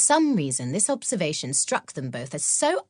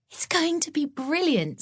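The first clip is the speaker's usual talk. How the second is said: much higher, gleeful; happy; 11 semitones higher than usual. Acted. Maud delighting in the new pool, high and happy. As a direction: beam as you say it. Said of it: "said Maud happily".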